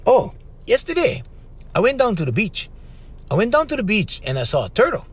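hamming up a stiff textbook chat; stilted radio talk. Retold or imitated. Radio host retelling a beach trip, mock stilted. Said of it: "the conversation went like this".

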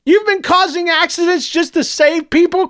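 high, loud scream of disbelief; tearful scream. A narrator's reading. Boy screaming at the villain through his tears. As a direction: shriek it at him through tears. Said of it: "Clovis screamed through his tears".

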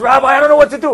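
high, loud burst of retold panic; nervous. Young soldier running to his rabbi for help, nervous. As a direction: act out a frantic plea for guidance. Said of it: "I'm so nervous".

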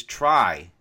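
"try" set apart and stressed. Real, not acted. Speaker giving a life takeaway, stress on "try". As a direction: lean firmly on the word "try". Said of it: "I'm gonna emphasis the word try".

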